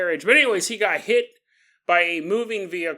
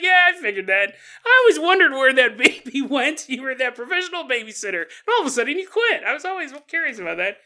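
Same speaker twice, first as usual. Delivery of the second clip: mock knowing; 5 semitones higher, 4 dB louder, faster than usual. Mock neighbour unsurprised by confession.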